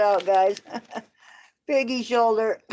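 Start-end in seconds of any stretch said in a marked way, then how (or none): 1.7-2.6 laughing. Real, not acted. Laughing at the label.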